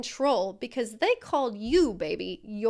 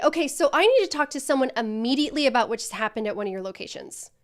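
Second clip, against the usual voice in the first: fast, louder demand from a pretend customer; upset caller; 7 dB louder, faster than usual. Coach as customer calling the trainee, loud and fast. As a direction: play the pushy customer who wants answers now. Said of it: "let's try this one more time".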